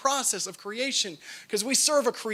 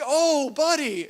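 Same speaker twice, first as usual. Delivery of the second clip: tender sigh; 5 semitones higher, much slower than usual. Retold or imitated. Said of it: "Nicole's response was like".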